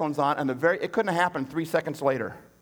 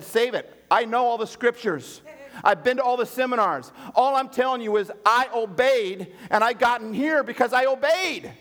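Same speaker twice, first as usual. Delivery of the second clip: higher, firm, slow insistence; preacher snapping back at a pastor, higher; indignant retort; 6 semitones higher than usual. Retold or imitated. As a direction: cut him off and stand your ground.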